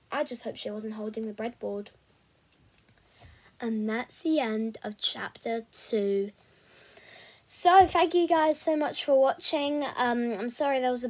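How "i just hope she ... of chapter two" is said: steady storytelling read; audiobook-style narration; story narration. A narrator's reading. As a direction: read the chapter aloud to listeners. Reads a novel chapter aloud.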